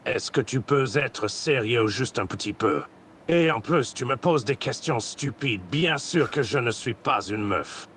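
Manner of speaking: lightly put-on Goku Black voice; villain roleplay voice. Voice chat roleplayer playing Goku Black, lightly voiced villain. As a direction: grandiose villain speech, held steady. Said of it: "un truc dans la gorge".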